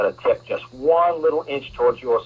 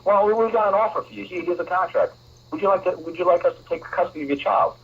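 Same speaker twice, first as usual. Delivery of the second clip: mock state agent; 8 semitones higher than usual. Acted state agent offering contract.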